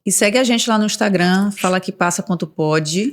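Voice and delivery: voz sensual de locutora. Acted. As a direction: fale de forma sedutora. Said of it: "eu usei uma voz sensual". (voz sedutora de locutora)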